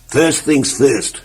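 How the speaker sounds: slow, drawn-out first things first; very slow, self-important; deliberate. Acted. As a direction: savour each word slowly. Same slow catchphrase.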